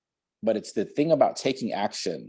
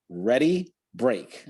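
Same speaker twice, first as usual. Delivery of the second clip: football huddle call; much slower than usual. Shown as a demonstration. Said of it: "Like in football".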